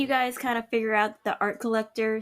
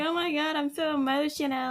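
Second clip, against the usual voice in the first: higher-pitched, hammed-up emotional whimper; mock crying; 5 semitones higher than usual. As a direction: pretend to be overcome with tears. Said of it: "you start crying because you're like".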